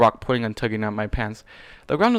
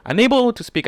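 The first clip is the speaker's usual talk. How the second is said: raised, higher emphatic narration; loud; 11 semitones higher, 7 dB louder than usual. A narrator's reading. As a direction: push the line up hard. Narrator intensifies.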